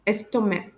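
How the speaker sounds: "estomac" ending on an open "ma"; silent C. Shown as a demonstration. French teacher repeating the model, "estomac" without its final c. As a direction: drop the k from "estomac". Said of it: "C is a silent letter".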